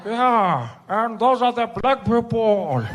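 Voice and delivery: slow, deadpan elder reply; dry old Mandela. Retold or imitated. Mandela answering Spiwe, slow and deadpan.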